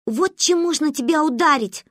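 high, mildly strained exclamation; puffing with effort. A narrator's reading. Girl dragging a heavy book, puffing. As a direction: announce it with a touch of effort. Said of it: "пропыхтела она".

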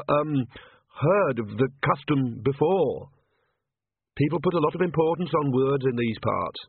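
high, hesitant nervous priest voice; timid priest. Acted. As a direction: stammer it out like a frightened cleric.

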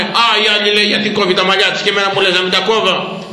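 lightly voiced envious complainer; imitating complaining woman. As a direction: mimic a penitent's jealous grumble. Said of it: "Μου λέγε κάποια, θυμάμαι". (μίμηση γυναίκας που παραπονιέται)

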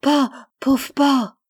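high, loud plaintive cries; tearful, little-boy wail. A narrator's reading. Son weeps over his dying father, wailing like a child. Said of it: "larmoyait et répétait comme un petit garçon".

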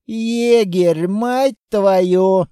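loud, lifted delighted greeting; joyful recognition. A narrator's reading. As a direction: greet an old acquaintance with glee. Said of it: "радостно осклабился".

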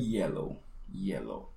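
yellow starting with a soft i glide. Shown as a demonstration. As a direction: ease into yellow softly. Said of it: "imagínatela como I latina". (yellow con la Y suave)

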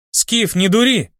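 high, slow pleading cry; shouting. A narrator's reading. Templar Elison cries out to Skif to stop, high slow shout. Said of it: "крикнула храмовница Элисон".

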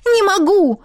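high, loud tearful outburst; crying out through tears. A narrator's reading. Heroine refusing through tears, high tearful cry. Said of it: "Слёзы вновь покатились по щекам".

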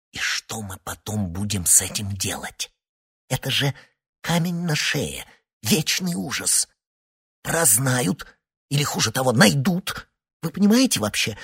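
выше, с нарастающим ужасом; шепчи, пугаясь всё сильнее; тревожный шёпот. A narrator's reading. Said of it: "продолжил шёпотом". (испуганный шёпот, выше)

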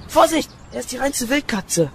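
laut warnend rufen; laut rufen, im Gerangel; Warnruf. Acted. Rangelei mit dem Eindringling. (Peter warnt den Gärtner: lauter Ruf)

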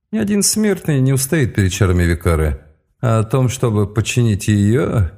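menacing mage voice. Acted. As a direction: interrogate like a cold mage. Mage Elirah interrogating.

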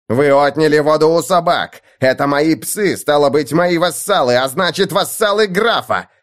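громкая, высокая яростная отповедь; распекай их, не сбавляя напора; гневная тирада. Acted. Мартин распекает лучников. (Мартин в гневе отчитывает лучников)

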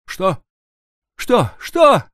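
anxious woman begging for news; repeated breathless what. Acted. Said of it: "повторяла она".

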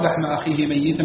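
ميتا as "mayyitan", y held double; doubled ya. Shown as a demonstration. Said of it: "بتشديد الياء في الثلاثة". (ميّتا بتشديد الياء)

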